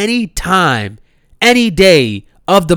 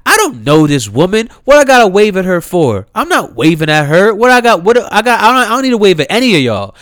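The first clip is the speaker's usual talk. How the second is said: a rising, louder mock protest; incredulous, raised-voice rant; indignant retort; 4 semitones higher, 3 dB louder than usual. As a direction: play the offended girl, voice climbing. Voicing the girls' indignant reply.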